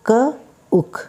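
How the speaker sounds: cook split into k and ook; sound-by-sound demo. Shown as a demonstration. Teacher sounding out "K-ook" for students. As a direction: say "K-ook" in two parts, k then ook.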